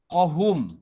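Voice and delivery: "Qahum" with breath pushed on h; airy h. Shown as a demonstration. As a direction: let air out on the h of "Qahum".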